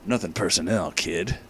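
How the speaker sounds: low, quiet cool-guy voice; edgy villain line. Acted. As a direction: drop the voice low for a smug villain. Villain line read in story.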